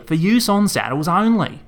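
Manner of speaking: "For use on saddles only" shouted high and loud. A narrator's reading. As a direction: jab out each word at her. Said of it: "Andrew yelled back".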